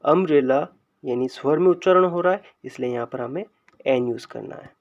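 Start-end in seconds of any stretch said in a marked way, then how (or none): 0.0-0.7 अम्ब्रेला sounded out from an opening "uh" vowel; अम्ब्रेला as a teacher's careful demonstration; pronunciation demo. Shown as a demonstration. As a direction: sound out अम्ब्रेला in parts, "um-brella". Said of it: "इसका उच्चारण भी होता है".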